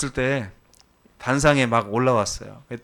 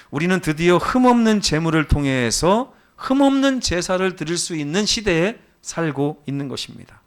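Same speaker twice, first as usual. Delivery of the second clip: emphatic preaching; 5 semitones higher, 5 dB louder than usual. Real, not acted.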